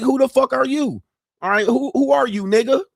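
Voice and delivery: high, sharp who-are-you brush-off; dismissive stripper. Retold or imitated. Stripper brushing off the regular who thinks she remembers him. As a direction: toss it off high like she's never seen him.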